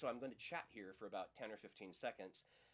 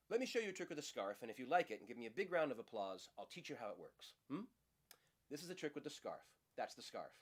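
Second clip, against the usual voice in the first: magician patter. Acted. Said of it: "Patrick Page's routine with his patter".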